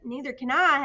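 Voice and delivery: loud wailing cry; howling. A narrator's reading. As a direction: howl it in fear. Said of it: "howled Flitter".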